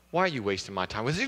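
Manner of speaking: low, fast irritated wife; annoyed wife. Acted. Wife scolding the husband, low and fast. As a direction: snap at him, exasperated.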